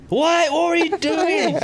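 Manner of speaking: hammed-up scolding parent; angry parent. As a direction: demand an answer from the kid.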